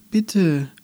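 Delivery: etwas lauter, höher bittend; drängender bitten. Acted. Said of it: "nun lauter". (Andi bittet das schnarchende Wesen lauter um Hilfe)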